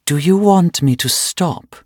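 a hint of a cold German accent. A narrator's reading. German torturer taunting her victim, lightly voiced German accent. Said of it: "in a heavy German accent".

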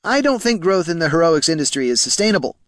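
high-pitched, timid clerk voice; nervous squeak. A narrator's reading. Clerk admitting his fear to the bosses, squeaky. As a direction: squeak out the dreaded conclusion. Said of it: "Poldo squeaked".

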